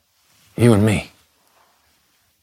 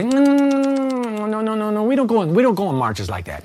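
disapproving elder; 9 semitones higher than usual. Retold or imitated. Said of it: "come to you and say".

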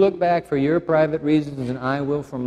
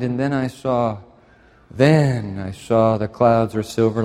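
hymn recited. Shown as a demonstration. Preacher reciting an old hymn to his flock. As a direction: read the hymn words lovingly, unhurried. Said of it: "if I could sing, I'd sing it for you".

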